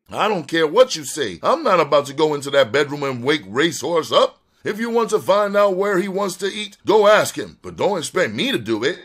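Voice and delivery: high-pitched, insistent refusal; agitated woman standing her ground; defiant frightened woman. Acted. Rhonda refuses to wake Racehorse.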